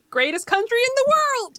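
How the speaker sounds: hammed-up flag-waving boast; mock patriotic cheer. Co-host sarcastically cheering America after the right-wing leader jab, mock patriotic shout.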